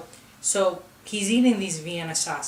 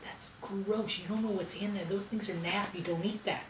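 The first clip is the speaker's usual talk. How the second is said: hushed disapproval; 7 dB quieter than usual. Retold or imitated. Relatives disapproving in background.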